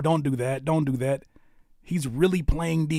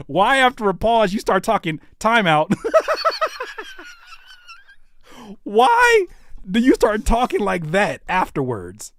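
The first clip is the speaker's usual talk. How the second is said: laughing tease; 6 semitones higher, 4 dB louder than usual. Real, not acted. Teasing, laughing question.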